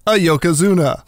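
rising, thrilled fan gushing; excited quote. Retold or imitated. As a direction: gush it like a delighted friend. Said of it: "like my buddy David said".

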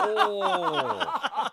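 laughing. Real, not acted.

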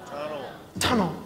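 very soft deadpan; hushed, matter-of-fact read; understated sign reading. Acted. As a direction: drop the word softly, as a punchline. Reads out the one-word sign.

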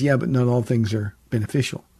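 low, measured stern rebuke. Acted. Paul answering the Corinthians, very sternly. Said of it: "then very sternly he says".

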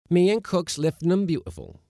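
high, loud seaman's call; shouting. A narrator's reading. Seaman defending his galley work, shouting. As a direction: holler back from below. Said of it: "shouted another seaman".

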